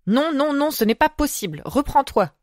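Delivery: high, urgent plea; pleading. A narrator's reading. Girl begging her friend to come to her senses, pleading. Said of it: "supplia la fillette".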